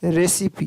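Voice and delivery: रेसिपी ending in a short "i"; रेसिपी with final e voiced as short "i". Shown as a demonstration. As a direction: sound the last e of रेसिपी as short i. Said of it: "छोटी ई का ध्वनि आ रही है".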